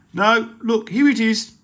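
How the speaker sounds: high, loud eager find; pirate girl thrilled to find the chest; excited pirate. Acted. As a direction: cry out the discovery.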